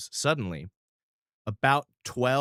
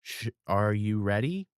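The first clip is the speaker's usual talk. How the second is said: put-on little boy. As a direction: speak like a shy small boy. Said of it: "lowers down and goes".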